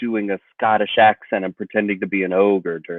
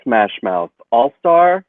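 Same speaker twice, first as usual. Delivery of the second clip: gushing; 6 semitones higher, slower than usual. Acted. Gushing over a band.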